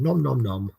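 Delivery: P=A; nom nom chomping. Retold or imitated. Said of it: "and I'm going".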